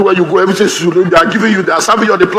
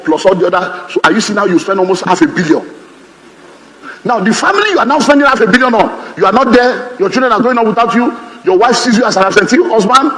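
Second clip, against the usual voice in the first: ordinary talk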